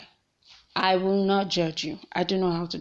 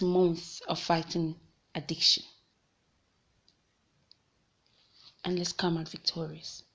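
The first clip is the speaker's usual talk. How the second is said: sweet motivational speaker voice. Acted. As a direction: inspire them, gently, like a life coach. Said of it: "I just sounded like a sweet motivational speaker".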